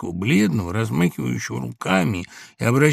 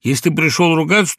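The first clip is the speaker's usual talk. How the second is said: getting angry; 6 semitones higher, 7 dB louder than usual. A narrator's reading. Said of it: "начиная сердиться".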